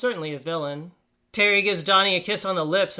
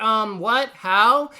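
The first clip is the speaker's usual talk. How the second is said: incredulous; 2 semitones higher, 5 dB louder, much slower than usual. Acted. Mock disbelief at character's breakup.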